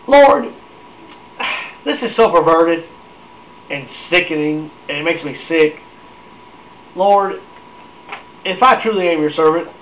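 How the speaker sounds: mock-fervent prophet crying out to the Lord; Elijah praying. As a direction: imitate an outraged prophet at prayer. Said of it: "He was sitting there saying".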